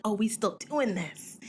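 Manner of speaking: unvoiced, hushed aside of disbelief; breathless whispered side-eye. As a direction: whisper it like judging him privately. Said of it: "I was like".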